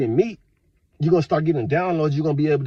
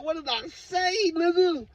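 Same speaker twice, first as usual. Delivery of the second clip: a put-on voice, baffled and fed up; exasperated; 11 semitones higher than usual. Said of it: "y'all, like".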